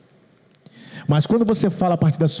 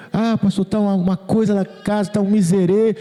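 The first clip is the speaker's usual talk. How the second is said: higher-pitched mock complaint to the pastor; complaining congregant; 5 semitones higher than usual. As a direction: imitate a member bemoaning troubles. (imitando fiel que se queixa)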